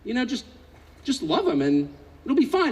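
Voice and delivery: a hint of the wife, breezy and sure; wife's voice. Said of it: "And she goes".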